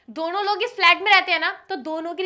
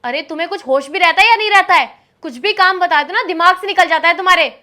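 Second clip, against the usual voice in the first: loud, exasperated scolding; wife scolds husband over the forgotten suit; 6 dB louder than usual. Acted. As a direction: tell him off sharply.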